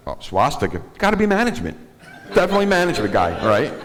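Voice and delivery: high, gushing recruiter voice; mock HR voice. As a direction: play an impressed hiring manager, going high.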